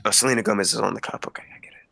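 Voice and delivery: hushed whispered aside; whispering. Real, not acted. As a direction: whisper it under your breath.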